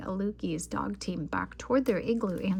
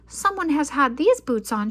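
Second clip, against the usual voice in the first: higher, louder huffy complaint; huffing; 6 semitones higher, 8 dB louder than usual. A narrator's reading. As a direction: huff it, annoyed. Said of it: "she huffed".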